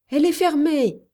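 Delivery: loud, high warning shout; Yuma. A narrator's reading. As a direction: shout it through a closed door. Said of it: "cria Yuma". (cri d'alerte)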